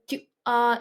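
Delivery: "tu as" as two distinct vowels; vowels not clashing. Shown as a demonstration. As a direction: keep "tu" whole before "as", S silent. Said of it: "it's not crashing in between".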